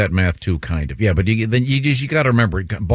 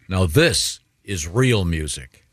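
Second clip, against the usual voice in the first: slow, weighty pronouncement; mock old-timer declaration; much slower than usual. Proving you're old by praising music aloud, slow mock-solemn. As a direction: draw it out like a proud old listener. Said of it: "say out loud".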